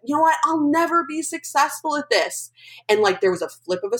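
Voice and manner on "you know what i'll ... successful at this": high-pitched upset outburst, retold without real shouting; retold yell. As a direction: mimic yourself wailing at your mom. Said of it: "I yell at my mom".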